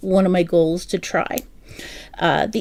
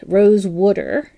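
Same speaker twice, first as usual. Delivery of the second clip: "Rose water" with a South Jersey "wooder"; South Jersey accent; 3 dB louder, slower than usual. Shown as a demonstration. Showing viewers how South Jersey says it, Jersey accent. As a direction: let the Jersey vowel out on "water". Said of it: "is how we would say it in South".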